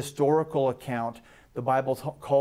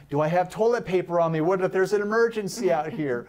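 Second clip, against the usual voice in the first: fast, fretful, a touch higher; comic mock panic; 4 semitones higher, 3 dB louder than usual. Peter panicking out on the water, hurried mock worry. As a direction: play Peter fussing in a comic flap.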